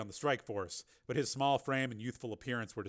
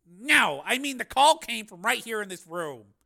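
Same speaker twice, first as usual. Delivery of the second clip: higher, louder, puzzled insistence; clarify while baffled yourself; 9 semitones higher, 10 dB louder than usual. A narrator's reading.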